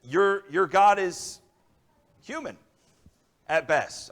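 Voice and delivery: slow, drawn-out taunt rising high on human; slow mocking put-down; scornful mock. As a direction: savour the insult slowly. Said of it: "he basically says".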